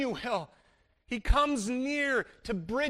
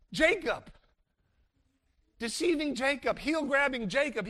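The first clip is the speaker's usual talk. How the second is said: Jacob, deceiving Jacob, heel-grabbing Jacob each raised higher; emphatic naming; 4 semitones higher than usual. Shown as a demonstration. Preacher marveling at Jacob, raised emphatic. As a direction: stress each name for Jacob. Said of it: "preacher stresses Jacob's names".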